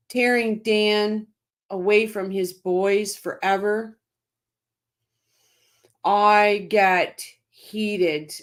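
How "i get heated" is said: heated. Real, not acted. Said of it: "I really do get heated".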